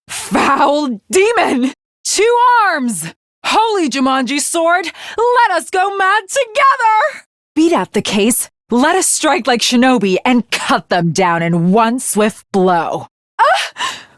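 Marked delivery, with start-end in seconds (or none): 3.4-7.2 battle cry. Acted. Battle cry to her sword. 13.4-14.1 high, sudden yelp of alarm; sharp, high startled "Ah!"; startled cry. Acted. Caught by the enemy.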